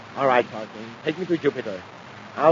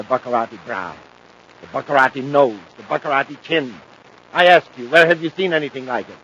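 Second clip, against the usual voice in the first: pompous boast; 6 dB louder than usual. Acted. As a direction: show off the noble face proudly. Villain boasts of his face.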